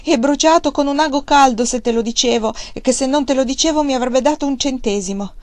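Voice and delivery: put-on high, tearful boy's voice; a scared little boy blurting it all out; frightened sobbing child. A narrator's reading. Terrified boy confessing to his father, tearful and high. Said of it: "scoppiò in singhiozzi e pianti dicendo".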